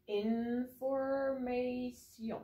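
Information very slow, fully French; exaggerated French. Shown as a demonstration. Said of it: "Are you, uh, speaking French?".

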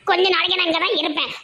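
tearful, sulky insistence; crying. Acted. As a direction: insist through a light sob. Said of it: "நீங்க எதுக்கு அழுதுட்டு வந்திருக்கீங்க". (அழுதபடி பிடிவாதம்)

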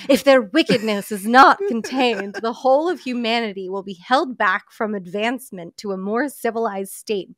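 mild evil queen voice; a hint of a scheming villain queen. Shown as a demonstration. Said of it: "He's talking like the evil queen".

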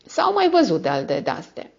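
pitched high, sly insinuation; hint darkly that they're fakes; odd insinuating tone. A narrator's reading. Notary hinting to viscount, high sly insinuating tone. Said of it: "pe un ton ce nu poate fi redat".

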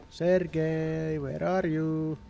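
long drawn-out call; stretched-out searching call. Pretend. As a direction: call slowly for a missing companion. Calling out for missing Sergei.

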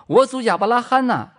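high, loud cry to Abraham. Acted. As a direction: call out in anguish. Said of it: "财主就喊着说".

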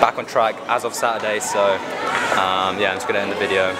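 tired hungover voice; groggy, hungover and low-energy. Real, not acted. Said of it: "Sorry, I'm a bit hungover".

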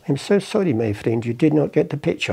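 imitated Persian accent, starting high. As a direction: apologise politely in a put-on Persian accent. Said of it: "a Persian guy".

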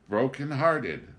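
mock-poetic cadence; rhythmically. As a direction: chant "Broken-hearted" like a line of verse. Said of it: "Pilon added rhythmically".

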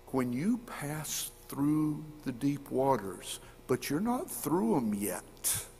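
slow and soft, a quiet promise; tender reassurance. Acted. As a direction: lean in gently, slow down.

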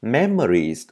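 "Memories" said clearly, falling after the first syllable; careful teacher's "Memories"; pronunciation demo. Shown as a demonstration. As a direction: model the word "Memories" for learners. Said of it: "Childhood cũng cho âm giờ vào một".

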